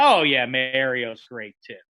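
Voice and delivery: slow, low, offhand praise tacked on; grudging afterthought. Retold or imitated. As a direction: toss off the compliment reluctantly. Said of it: "He says".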